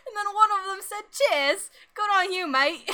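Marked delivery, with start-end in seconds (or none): 1.1-2.9 mock British accent. Co-host joins the British bit.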